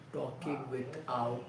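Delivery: talking with pinched nose; holding the nose shut; nose held. Shown as a demonstration. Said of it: "when you practice holding your nose".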